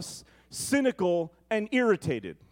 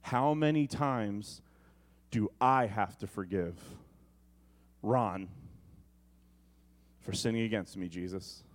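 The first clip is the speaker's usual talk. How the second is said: sulky low grumble; 8 semitones lower, 5 dB quieter than usual. Retold or imitated. Stale believer complaining about Ron.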